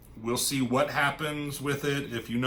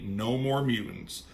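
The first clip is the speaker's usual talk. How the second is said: calm. Retold or imitated. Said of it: "Just very calmly".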